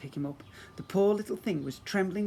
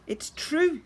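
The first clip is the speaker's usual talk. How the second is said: loud insistence; 13 semitones higher, 7 dB louder than usual. Acted. Gladys Potts insists.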